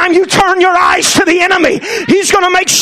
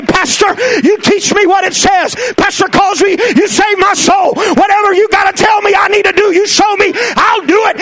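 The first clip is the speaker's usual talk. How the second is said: fervent pledge; 3 semitones higher than usual. Acted. Church member pledging to pastor.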